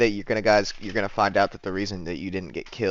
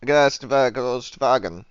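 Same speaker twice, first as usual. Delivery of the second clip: fake German; much slower than usual. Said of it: "in just fake German".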